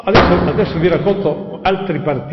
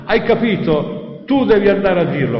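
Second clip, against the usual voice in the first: high, insistent command; raised, pressing tone; imitated shout; 5 semitones higher, 4 dB louder than usual. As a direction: mimic a voice ordering from above. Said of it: "È questo che grida".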